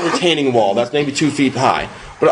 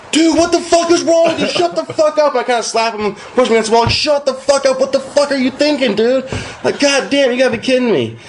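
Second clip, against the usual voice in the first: exasperated scolding; 11 semitones higher than usual. Retold or imitated. Telling his drunk friend to shut up, high exasperated scolding. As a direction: berate him without letting the cops hear. Yelling at buddy near cops.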